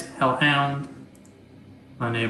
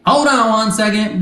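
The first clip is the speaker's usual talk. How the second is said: high, loud, stuttering robot voice; a glitchy robot stammering its words, pitched up; 7 semitones higher, 6 dB louder than usual. Acted. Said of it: "a robotic voice come over and goes".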